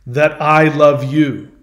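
slow, emphatic indignant demand; mildly furious storyteller's quote; retold fury. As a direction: throw someone off with stressed, slow words. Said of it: "he gets furious at this".

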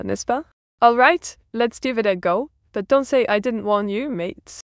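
lightly French-accented English; playful, mild French accent. Real, not acted. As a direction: add a touch of French flair. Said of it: "I've returned to my French flair".

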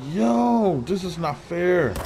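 high, drawn-out complaint; real exasperated whine; upset protest. Real, not acted. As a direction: protest the unfairness, stretching the words. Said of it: "I'm really mad".

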